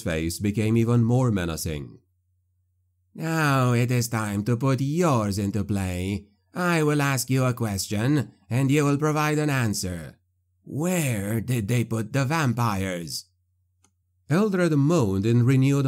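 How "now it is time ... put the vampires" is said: sneering gloating dark voice. A narrator's reading. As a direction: interrogate with cold menace. Necromancer interrogates captive.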